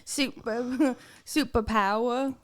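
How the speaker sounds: slow Australian drawl; mock Aussie with dropped R's; Australian accent. Shown as a demonstration. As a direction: draw it out in amateur Australian. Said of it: "That's Australian".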